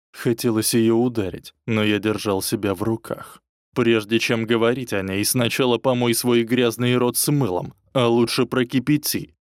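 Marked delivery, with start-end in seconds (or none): 3.7-9.3 louder, sharp angry bark; a furious retort to the ex. Acted. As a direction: snap the order at her. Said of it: "рявкнул".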